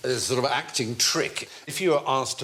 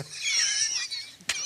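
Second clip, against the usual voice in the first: breathy laugh from empty lungs; convincing laugh. Shown as a demonstration. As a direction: push the air out and laugh. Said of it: "But if you empty your lungs".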